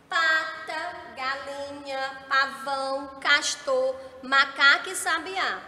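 each word read out loud and clear to the class; reading the list aloud. Shown as a demonstration. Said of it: "eu vou ler pra vocês".

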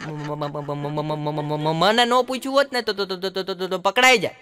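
low, stuck on ma; a stammerer answering back; stammering. Retold or imitated. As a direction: stammer through the whole reply. Stammerer's reply.

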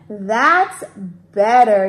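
sleepy dragon, mildly acted; acted yawn. A narrator's reading. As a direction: draw it out with a storybook yawn. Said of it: "yawned Dram".

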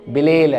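Arabized "بليله", run together as one word; Egyptian corrupted form. Shown as a demonstration. Teacher shows how Egyptians changed it, Egyptian pronunciation. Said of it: "فاحنا قعدنا نحرف فيها".

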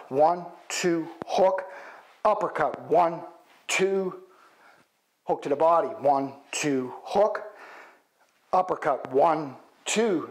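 calling combos mid-punch; counting while punching. Shown as a demonstration. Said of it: "so it looks like this".

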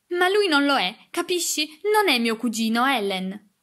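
high, loud distressed denial; pained insistence. A narrator's reading. Grieved girl denying the cousin to her nurse, insistent. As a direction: insist against it, upset. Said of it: "insistette lei, ancora più addolorata".

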